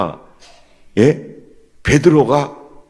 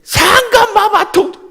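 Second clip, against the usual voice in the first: much higher, slow, laughing mock plea; mock courtier plea; 3 dB louder, slower than usual. Preacher mimicking ancestors begging the king, laughing mock plea. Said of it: "우리 선조들은".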